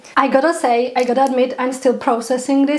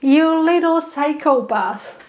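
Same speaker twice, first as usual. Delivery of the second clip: a touch higher, mock-startled scolding; startled mock scolding of the spider; startled exclamation; 4 semitones higher, much slower than usual. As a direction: tease the spider, half shocked. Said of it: "And I was like".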